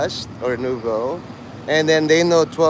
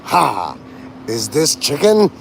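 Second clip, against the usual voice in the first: Al Pacino ha; slower than usual. Retold or imitated. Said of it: "you will become Al Pacino".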